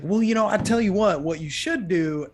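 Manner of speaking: a hint of an old country farmer giving directions; lightly voiced folksy old man. Retelling a sales story, lightly voicing the farmer's advice.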